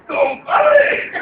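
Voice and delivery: grito muy agudo y fuerte; llámalo a gritos agudísimos; grito llamando. Acted. Llamada a gritos otra vez. (grita muy agudo llamando al compadre)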